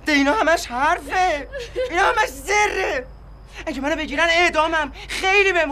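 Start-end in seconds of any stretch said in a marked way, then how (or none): 0.1-3.1 bitter laugh. Acted. Bitter laughing through tears.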